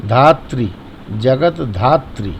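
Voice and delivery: "धात्री" said dhaa-tri with the tri ending; correct pronunciation. Shown as a demonstration. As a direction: say "धात्री" in full, not "धात". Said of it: "इसका उच्चारण ई से होगा". ("धात्री" पूरा बोलें)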